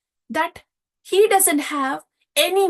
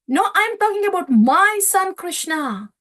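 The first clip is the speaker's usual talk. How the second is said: insistent father; 5 semitones higher, 4 dB louder than usual. Retold or imitated. Nanda insists on his son.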